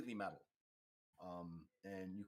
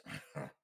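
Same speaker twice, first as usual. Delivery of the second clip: short snort through the nose; imitated guards' snort; derisive snort; 5 semitones higher than usual. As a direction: snort scornfully at a passer-by. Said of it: "this snorting sound at you".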